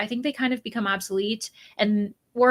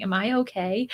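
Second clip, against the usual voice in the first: whisper. Real, not acted. Doubts her own speed.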